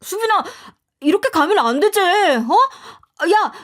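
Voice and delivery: high, loud desperate yell; screaming after her. A narrator's reading. Mother-in-law yelling after the departing narrator, high desperate yell. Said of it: "고래고래 소리를 지르더군요".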